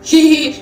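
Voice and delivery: put-on "hee hee" giggle; mock giggle. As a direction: act out a silly giggle. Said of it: "तू हंस रही है". (बनावटी ही-ही वाली हँसी)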